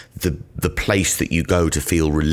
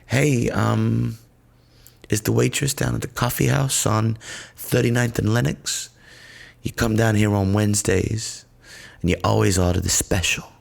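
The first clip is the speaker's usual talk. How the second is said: lightly voiced barista, a bit higher; chatty caller asking if it's him; barista on the phone; 6 semitones higher than usual. Barista calling a regular customer, lightly voiced, higher. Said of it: "getting called up and going".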